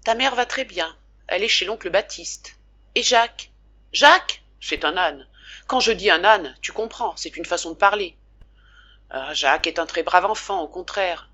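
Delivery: put-on the good man talking nonstop so the boy won't; lightly voiced father. Father at the bedside telling his sick son the whole story, eager and chatty.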